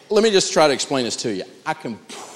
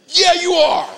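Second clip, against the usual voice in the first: smug comeback; 5 dB louder, slower than usual. Retold or imitated. Curt comeback to salesman.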